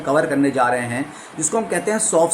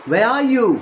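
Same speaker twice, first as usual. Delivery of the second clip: are pitched higher and pushed; stress on are; 7 semitones higher, 3 dB louder, much slower than usual. Shown as a demonstration. Teacher showing how stress changes meaning. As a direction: lift the word are, then drop. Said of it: "तीनों में different meaning".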